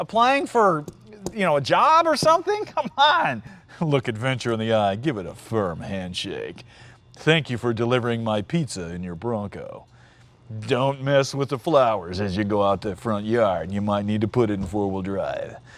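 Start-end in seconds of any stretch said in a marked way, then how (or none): 3.8-15.6 low, big, dramatic mock commercial announcer voice. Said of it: "That's what it sounds like".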